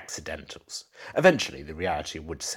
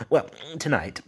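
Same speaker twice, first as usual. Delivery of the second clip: distraught husband; 11 semitones higher, 5 dB louder than usual. Acted. Husband retelling wife's pleas.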